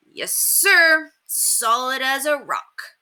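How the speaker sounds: high, slow and proud. Acted. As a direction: boast about the house. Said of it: "Murph spoke with pride".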